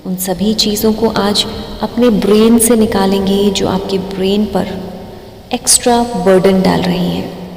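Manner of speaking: slow, drawn-out meditation guidance with long pauses; guided meditation. Acted. Meditation teacher guiding listeners through breathing, slow guided-meditation voice. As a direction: stretch key words and leave room to breathe.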